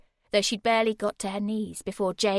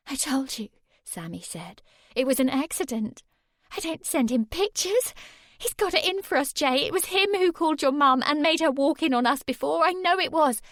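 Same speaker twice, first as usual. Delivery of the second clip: high, rising insistence; desperate pleading; 6 semitones higher, 5 dB louder than usual. Acted. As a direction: insist he believe her. Sammy pleads, frantic.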